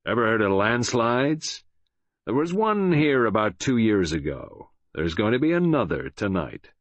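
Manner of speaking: cold, menacing American villain; Ryland. Acted. Villain gloats over bound captive about the trap, cold menace. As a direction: threaten coldly, taking your time. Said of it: "so cold and menacing was it".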